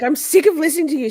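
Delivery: high, loud, fast mock rant; mocking Katie. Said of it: "She's like".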